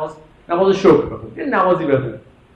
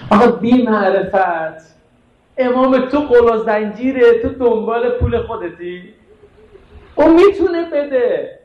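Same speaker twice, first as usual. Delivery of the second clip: drawn-out reproach climbing in pitch; reproachful scolding; 4 semitones higher, slower than usual. Acted. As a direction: chide the ungrateful man, voice rising. Scolds the ungrateful man in story.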